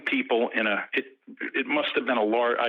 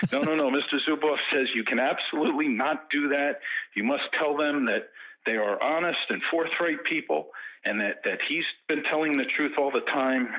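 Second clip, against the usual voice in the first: lightly voiced protesting translator, pitched higher; Vadim; 4 semitones higher than usual. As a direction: imitate an interpreter relaying the boss's objection. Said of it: "And his translator, Vadim, says".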